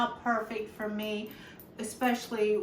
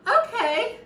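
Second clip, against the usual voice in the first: fighting tears; 4 semitones higher, 5 dB louder, slower than usual. Real, not acted. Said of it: "she's got me crying".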